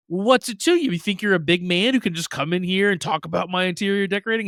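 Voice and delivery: fake-tough, clearly not serious; playfully picking a fight; playful mock challenge. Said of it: "she has this playful tone to her voice".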